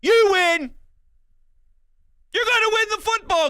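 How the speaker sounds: excited shout. Real, not acted. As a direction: blurt out the win call. Fan declaring a sure Eagles win.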